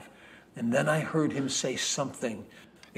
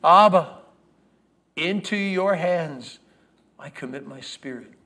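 loud cry fading; 3 semitones higher, 5 dB louder than usual. Retold or imitated. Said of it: "as he said with a loud voice".

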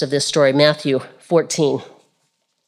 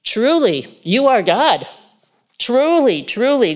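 worshipful awe; 5 semitones higher than usual. Acted. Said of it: "worshiped him, saying".

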